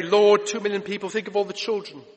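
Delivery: an overwrought pleading prayer, rising; mock sentimental plea. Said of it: "I'd get sentimental".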